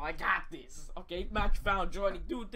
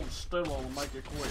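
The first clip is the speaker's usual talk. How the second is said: villain voice impression; 5 semitones lower than usual. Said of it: "repeats villain line".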